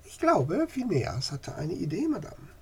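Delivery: smiling. Acted. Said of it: "Sophie lächelte".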